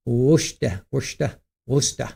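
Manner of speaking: "Worcester" said "woosh-tuh", dropped r and shortened; local Worcester. Shown as a demonstration. Vlogger showing chat the local way, "Worcester" as "woosh-tuh". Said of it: "We say Worcester for Worcester".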